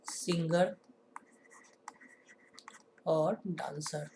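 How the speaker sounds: whispered terms; softly whispered question words. Real, not acted. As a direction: whisper the two words slowly.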